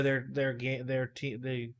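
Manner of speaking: tripping over words; stuttering. Real, not acted. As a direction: restart the words, stumbling. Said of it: "I'm stuttering".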